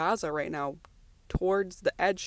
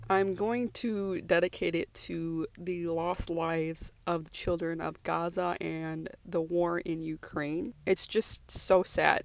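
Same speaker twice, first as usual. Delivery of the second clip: still teary; slower than usual. Real, not acted. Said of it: "a little teary right now".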